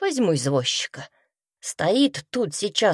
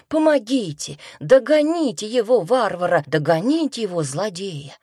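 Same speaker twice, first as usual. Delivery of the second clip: calling for help, pitched up high; crying for help; 5 semitones higher than usual. Retold or imitated. Robbed woman yells after the thief, pitched up high. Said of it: "заорала я".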